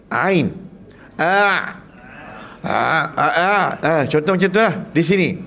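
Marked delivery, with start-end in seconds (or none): 1.2-4.0 repeated throat ah; throat sound demo. Shown as a demonstration. Teacher demonstrates throat letters to class. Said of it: "harf yang kedua".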